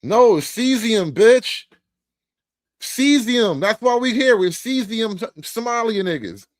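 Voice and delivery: loud, high mock-tough declaration; hammed-up indignant correction; mock police announcement. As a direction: play the cesium cop, loud and emphatic. Mock cesium police bit.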